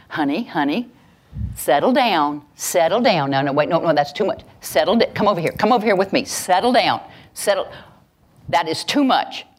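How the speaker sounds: put-on mildly urgent parent reining in an excited child; parent settling child. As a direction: shush a squealing kid with repeated, insistent commands. Parent calming an over-excited child.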